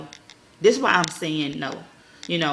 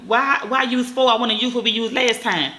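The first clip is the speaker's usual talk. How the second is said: put-on kid with attitude; 2 semitones higher than usual. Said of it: "had an attitude".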